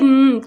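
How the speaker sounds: न hummed as a lone consonant; isolated last sound. Shown as a demonstration. Teacher counting the sounds in learn, isolated न. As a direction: sound out "न" by itself. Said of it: "तीन sounds हैं लर्न के".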